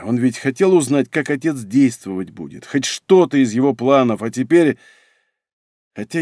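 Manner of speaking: plain reading voice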